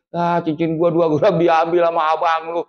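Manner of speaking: mother grumbling about her stolen ring; mother's complaint. Retold or imitated.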